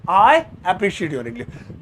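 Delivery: very slow, drawn-out sentence; I appreciate your English drawn out very slowly; very slow model line. Shown as a demonstration. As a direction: stretch every word.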